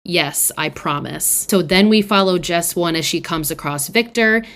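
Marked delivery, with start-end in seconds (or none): 0.0-1.5 slow, mock-dramatic vow. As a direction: ham up the solemn promise, slowly. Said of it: "very dramatically says".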